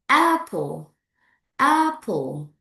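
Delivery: APPLE in two beats, falling on the second; two syllables. Shown as a demonstration. Teacher models a two-clap word for the class, two syllables. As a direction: say APPLE as two claps, AP-ple. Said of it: "Two syllables".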